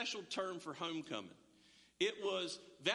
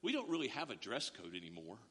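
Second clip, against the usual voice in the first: imitating the lady; 6 semitones lower than usual. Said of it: "and she goes".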